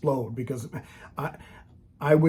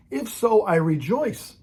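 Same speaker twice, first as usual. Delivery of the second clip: quoting Paul; 6 semitones higher, much slower than usual. Retold or imitated. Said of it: "He said".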